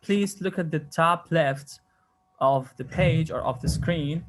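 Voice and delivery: very slow, carefully spaced English; slow teaching demo. Shown as a demonstration. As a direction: spell it out slowly for the class. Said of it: "راح أقول لكم إنه بالإنجليزي". (قراءة بطيئة واضحة للطلاب)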